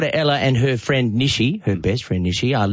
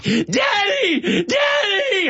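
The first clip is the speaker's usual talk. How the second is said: put-on child calling for dad; much slower than usual. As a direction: scream for dad from the other room. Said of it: "I heard this".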